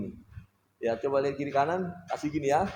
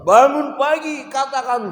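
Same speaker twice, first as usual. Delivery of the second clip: tag; 11 semitones higher, 11 dB louder, slower than usual. Real, not acted. Rousing congregation.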